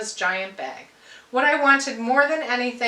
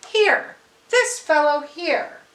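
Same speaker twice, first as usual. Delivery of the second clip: lightly voiced Santa; 5 semitones higher, slower than usual. Santa picks the boy.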